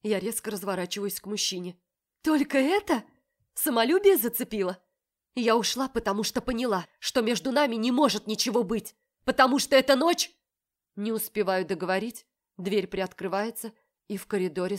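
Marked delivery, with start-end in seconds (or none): 2.2-4.8 higher, louder bitter jab; mock his wounded pride; angry. Heroine confronts the man angrily. 5.4-10.3 louder, building explanation; agitated. Acted. Heroine explaining, rising emotion.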